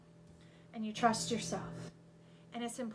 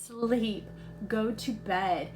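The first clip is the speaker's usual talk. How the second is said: "Sleep." said much louder as a command; emphatic sleep; 11 dB louder, much slower than usual. Shown as a demonstration. To tired viewers, a loud firm command. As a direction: bark "Sleep." like an order. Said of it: "let me translate".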